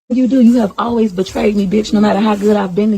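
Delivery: wife accusing her husband of always betraying her; angry accusation. Real, not acted. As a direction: hurl the betrayal at him.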